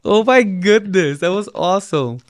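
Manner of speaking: loud, high, delighted astonishment; real amazed outburst. Real, not acted. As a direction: exclaim loudly at an astonishing crunch. Listener amazed by loud bite sound.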